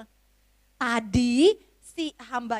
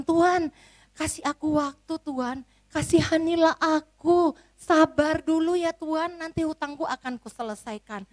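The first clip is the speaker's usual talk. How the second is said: higher, slowish begging plea; pleading servant; 4 semitones higher than usual. Acted. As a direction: implore the master to be patient. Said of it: "memohon kepada sang tuan".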